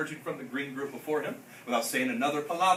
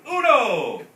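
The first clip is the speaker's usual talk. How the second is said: loud shouted count; 3 semitones higher, 10 dB louder than usual. A narrator's reading. Doggy shouting the count to pull, loud shout. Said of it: "the doggy shouted".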